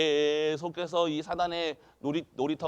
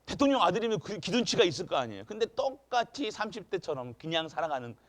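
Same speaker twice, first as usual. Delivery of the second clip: ordinary talk, nothing marked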